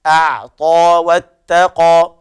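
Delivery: أعطى slowly, a moderate ع and a heavy ق in واتقى; التوسط في العين; tajweed demo. Shown as a demonstration. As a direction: give the ع in أعطى a middle weight, slowly. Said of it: "نحافظ على التوسط في العين".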